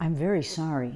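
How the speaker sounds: soft, deep, dropped-larynx voice. Voice lesson comparing larynx positions, first in a low larynx voice. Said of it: "This is my low larynx".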